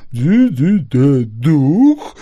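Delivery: stammering, frightened question; stammering hunter. A narrator's reading. Hunter stammering back at the spirit, scared. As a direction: stutter it out in fright. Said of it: "заикаясь".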